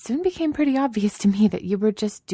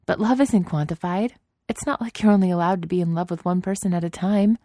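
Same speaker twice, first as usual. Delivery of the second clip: reassuring; 4 semitones higher than usual. Acted. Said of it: "she assured him".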